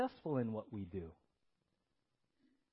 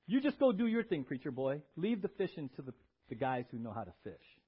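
dismissive, tired brush-off, dropping away; cranky Peter; 5 semitones lower than usual. Acted. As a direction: send the preacher off grumpily. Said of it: "I'm a little bit cranky".

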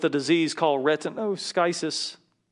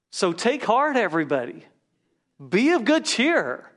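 rousing exhortation; 5 semitones higher, 4 dB louder than usual. Acted. Pastor rallying his congregation, high and loud. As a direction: lift the room up, high and ringing.

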